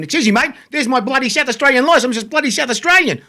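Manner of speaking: acted protest climbing into a high-pitched plea; indignant supporter. Supporter turned away at the gate showing his licence, indignant. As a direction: play the wronged local, pitch rising as you go.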